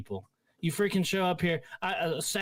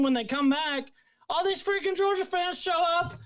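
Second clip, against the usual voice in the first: pitched way up, ranting without letup; heated rant; 8 semitones higher than usual. Real, not acted. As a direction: vent your outrage, voice climbing higher. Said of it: "Are you mad?".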